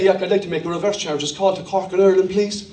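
quick-fire Irish caller, a little low; casual Irish phone request; own Irish accent. Acted. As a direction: ask in a thick Irish accent. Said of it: "change your accent and you were there".

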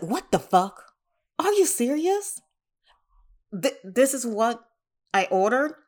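indignant rant, pitch jumping high on serious; mock fury at a cheap order; outraged disbelief. Reliving her reaction to the cheap sandals, indignant rant.

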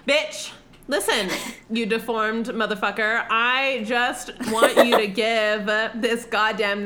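hammed-up exasperated snapping at her; mock furious outburst; mock angry rant. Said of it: "He's like".

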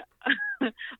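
a silly squeaky laugh shooting way up; stupid high laugh. Shown as a demonstration. Guest shows the stupid laugh she has, high giggle. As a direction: let out the goofy laugh you're embarrassed by. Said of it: "like, a really stupid laugh".

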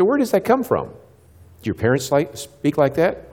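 lightly acted questioning with rising ends; questioning students. Speaker quizzing school students about bad words, questioning.

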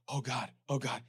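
a hint of dread, muttered; anxious. Telling the church of his phone worry, mock anxious. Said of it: "anxiety situation".

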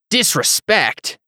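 high, drawn-out scoffing "Disrespect"; incredulous echo. A narrator's reading. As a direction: spit the word back in disbelief, pitch leaping. Hothead throws the word back, incredulous.

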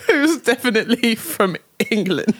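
put-on British sign-off; hammed-up British reading; British accent. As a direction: insist in a mock-British accent. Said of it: "read it with a British accent".

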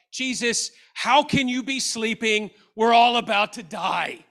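acted panic, rising in loudness; upset, panicking. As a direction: cry out like an alarmed disciple. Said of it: "they're upset because Jesus is asleep".

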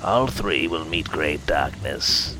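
trance-like whispered oracle; harsh whisper. Acted. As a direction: chant the vision in a harsh whisper. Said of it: "spoke in a harsh whisper".

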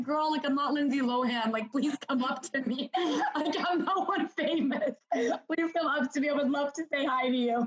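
laughing while inviting fans to say hi; laughing reply. Retold or imitated. Telling a fan to come say hi, laughing. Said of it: "I'm like".

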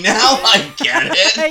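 laughing through the words, slowed; slow amused laugh while speaking. Real, not acted. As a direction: giggle out the realization. Laughing at the realization.

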